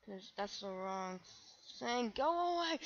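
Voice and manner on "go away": high, loud cry of alarm; panicked yell. Real, not acted. Gamer yelling at a chasing player in panic. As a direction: shoo the attacker off in panic. Panic as enemies chase him.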